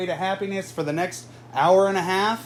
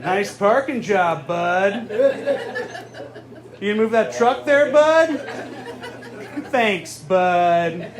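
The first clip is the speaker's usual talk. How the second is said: sarcastic Wisconsin guy; 2 semitones higher, slower than usual. Retold or imitated. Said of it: "Menards parking lots".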